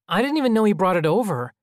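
put-on high, loud, overdone innocent child; precocious sitcom kid. A narrator's reading. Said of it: "His voice was slightly higher and more exaggerated".

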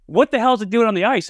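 can't believe his eyes; incredulous trainer. Retold or imitated. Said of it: "And he goes".

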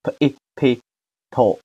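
p、诶 apart, blended into short p, then 透; teacher piecing together the unstressed syllables p and 透; syllable sounding-out. Shown as a demonstration. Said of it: "好，连起来".

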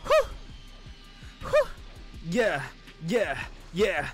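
ordinary talk, nothing marked

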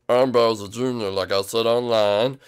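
lightly put-on manly voice, drawn out; slow it down to sound like a man. Boy impressing his date, in a put-on manly voice. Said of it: "I like your manly voice".

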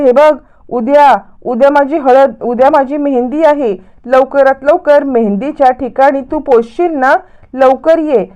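deliberate announcement, only half shouted; mild mock yelling. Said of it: "मुद्दामच Priya ओरडायला लागते".

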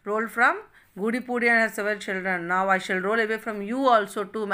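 calling out. Acted. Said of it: "she called out that".

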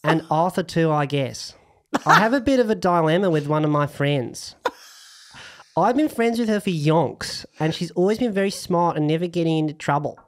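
lightly put-on, jokey Australian accent. Host reads listener Lara's question aloud, in a mock Australian accent. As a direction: read it like a bad Aussie impression. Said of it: "I'm gonna read it in my Australian accent".

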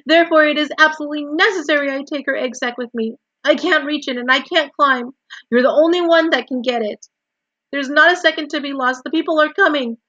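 high, loud, pleading; urgent cry. A narrator's reading. Wilbur begs Templeton to save the egg sac, crying out. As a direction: plead frantically at the top of your voice. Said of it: "cried Wilbur".

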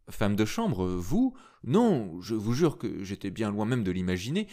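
a proud young woman mocking his guess; indignant young woman. A narrator's reading. Esther mocks the narrator, indignant and sarcastic.

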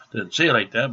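ordinary delivery

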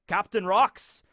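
put-on amateur Scottish accent for a pirate adviser; bad Scottish accent. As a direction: put on a rough attempt at Scottish. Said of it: "I'm talking in a Scottish accent".

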